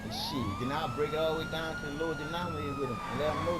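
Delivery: high mock voice. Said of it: "I said".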